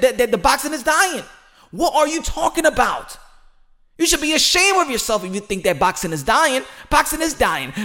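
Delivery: high, loud and indignant at the doubters; real exasperated outburst, pitch way up; heated rant. Real, not acted. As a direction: tear into the people saying boxing is dying.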